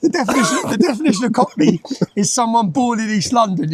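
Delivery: trying to get the words out through giggles; laughing through a ridiculous detail; laughing while telling. Real, not acted. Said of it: "I'm crying my eyes out at this point".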